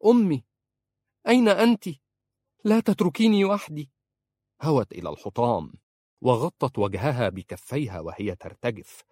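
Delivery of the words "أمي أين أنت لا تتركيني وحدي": high, loud desperate call for her mother. Acted. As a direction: cry out for mother as loud as you can. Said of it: "نادت بأعلى صوتها". (صراخ عالٍ يائس)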